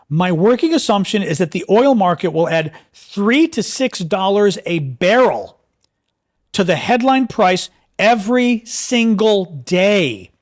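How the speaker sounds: deliberate second reading, slow and pointed; slow emphatic reread. Shown as a demonstration. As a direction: spell it out slowly so it sinks in. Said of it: "Let me read this again".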